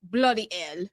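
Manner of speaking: mock British with dropped h; mock British swearing. Host echoing British slang, mock British accent. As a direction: swear like a put-on Brit.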